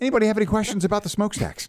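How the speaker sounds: mock tour guide. Plays guide at Titanic museum.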